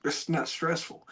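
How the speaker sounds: soft, unruffled reply; retold cool composure. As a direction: say it quietly, keeping your cool. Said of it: "How do you stay so cool".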